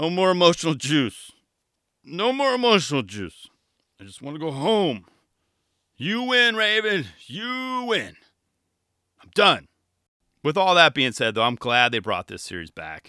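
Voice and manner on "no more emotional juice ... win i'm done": mumbling, half to oneself. Picturing Ian almost passed out in a bar corner, imitating Ian mumbling. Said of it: "just kind of mumbling like".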